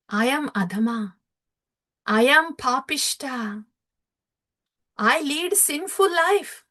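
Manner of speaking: lightly voiced humble devotee, rising to a plea; humble pleading saint. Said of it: "Srila Haridas Thakura".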